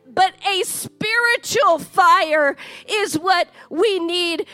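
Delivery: building sermon cadence; preaching. Acted. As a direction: preach it with rising conviction. Preaching the main point.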